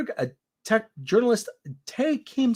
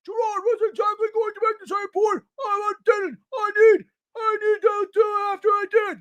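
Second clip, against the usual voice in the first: mocking Black's voice; 13 semitones higher than usual. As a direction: parody her as an indignant squealing woman. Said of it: "That's how she sounds".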